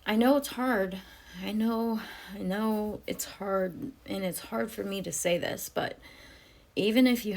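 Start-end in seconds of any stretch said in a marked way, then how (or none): 0.1-6.0 tearful. Real, not acted. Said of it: "I'm crying".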